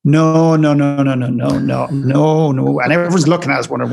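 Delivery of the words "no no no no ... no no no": loud string of flat-out nos; retold loud refusal; emphatic refusal. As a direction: shut it down hard, no after no. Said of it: "and she goes".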